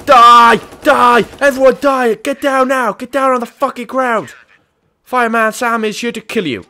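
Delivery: screamed high and loud, like a maniac cop; hammed-up rampage shout. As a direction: roar it at everyone, pitch way up. Rampage in firefighter role.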